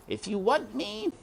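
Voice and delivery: muttered. A narrator's reading. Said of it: "muttered Roscuro".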